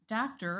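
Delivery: "Doctor" set apart with weight; emphasis on Doctor. Real, not acted. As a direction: stress the word "Doctor" as a title. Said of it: "I wanna emphasize the word doctor".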